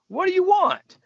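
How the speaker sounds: sudden high, loud bark of a reply; retold boss yelling from his office; gruff call through door. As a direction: snap it out at the knock like an irritated boss. Padge barking through office door.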